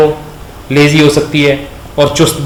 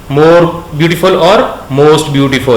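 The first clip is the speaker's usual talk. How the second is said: slow dictation; much slower than usual. Shown as a demonstration. Teacher dictating the forms.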